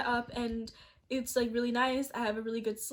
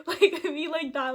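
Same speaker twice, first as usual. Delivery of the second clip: giggling through the words, higher and louder; laughing; 4 semitones higher, 5 dB louder, slower than usual. Real, not acted. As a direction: laugh while describing the photo. Laughing at her passport photo.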